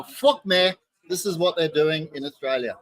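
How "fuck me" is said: put-on louder exclamation in a Scottish accent. Scotsman showing his mates the bottle, in a mock Scottish accent. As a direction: burst out like an impressed Scotsman. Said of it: "Part of that was Scottish".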